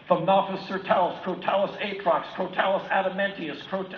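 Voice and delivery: put-on a kid showing off his memorized Latin; nerdy recital. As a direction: rattle off the names proudly. Reciting memorized snake names.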